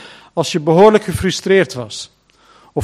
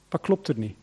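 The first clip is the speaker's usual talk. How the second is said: ordinary delivery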